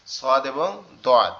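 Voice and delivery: সদ এবং দদ spelled out very slowly; slow contrast. Shown as a demonstration. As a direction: set সদ and দদ side by side, slowly. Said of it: "ঠিক আছে?".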